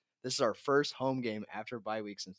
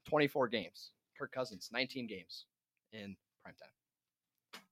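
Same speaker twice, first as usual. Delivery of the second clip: moving handheld mic; 3 dB louder than usual. Real, not acted. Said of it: "You can pull it away from your mouth".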